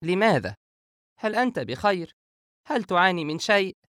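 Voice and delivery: high, anxious woman's questions; worried. A narrator's reading. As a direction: ask urgently in a high, concerned voice. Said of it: "عائشة بقلق". (قلق بصوت نسائي عال)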